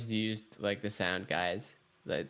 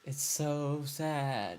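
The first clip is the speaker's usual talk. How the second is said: drawn-out, very slow mock sorrow; mock lament; 3 semitones higher, much slower than usual. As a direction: stretch each word out in playful dismay. Mock lament over missing screen.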